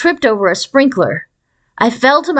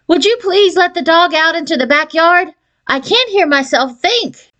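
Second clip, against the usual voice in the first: high, raised voice over the racket; calling over noise; 8 semitones higher than usual. A narrator's reading. Mother asking father over the noise to let dog out. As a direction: strain to be heard over howling. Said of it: "called over the racket".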